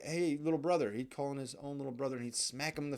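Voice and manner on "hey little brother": calling out. Retold or imitated. Kid calls his brother over.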